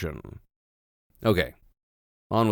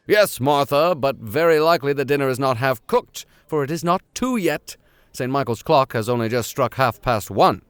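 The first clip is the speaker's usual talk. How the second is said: lightly voiced gruff uncle, a bit louder; a hint of the stern professor; 3 semitones higher, 4 dB louder than usual. Nephew explaining the time to Martha, lightly voiced. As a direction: answer the maid briskly.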